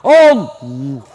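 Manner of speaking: booming low, drawn-out mock takbir; disruptive takbir. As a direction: blast it out like an overzealous worshipper. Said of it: "Baru takbir dia ganggu kita". (takbir rendah menggelegar, dibuat-buat)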